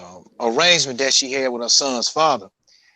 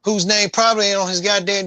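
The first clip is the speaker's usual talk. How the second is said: indignant dad; 8 semitones higher than usual. Retold or imitated. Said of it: "He said".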